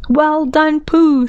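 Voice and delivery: kindly, high-pitched praise. A narrator's reading. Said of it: "said Rabbit kindly".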